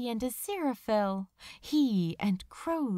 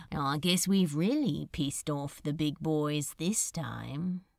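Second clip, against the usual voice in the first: a lightly voiced wry demon, a touch lower; a dry, knowing aside, lightly lowered; 5 semitones lower than usual. Demon to his angel lover, lightly voiced wry.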